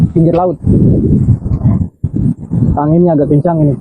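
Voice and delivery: talking round a cigarette; words through a lit cigarette; cigarette in mouth. Real, not acted. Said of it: "sambil merokok kita ini".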